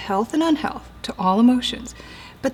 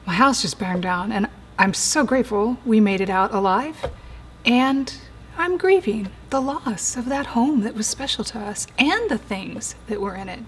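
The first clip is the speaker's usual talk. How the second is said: honest grief. Retold or imitated. Preacher voicing the same fire victim honestly admitting grief. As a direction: say it plainly, letting the sadness show. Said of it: "Different. Honest".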